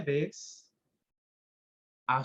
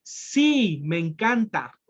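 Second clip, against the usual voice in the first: exclaimed; slower than usual. Shown as a demonstration. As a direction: burst out with the Sí like a real exclamation. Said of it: "vean los signos de admiración".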